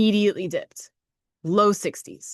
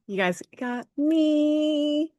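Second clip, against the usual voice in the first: drawn-out; 8 semitones higher, much slower than usual. Acted. Playful drawn-out announcement.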